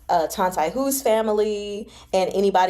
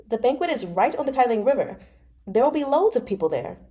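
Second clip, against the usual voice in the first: higher, coaxing friend's voice; lightly voiced pushy friend; eager young noble; 5 semitones higher than usual. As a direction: talk him into coming along. Fei Shi persuading.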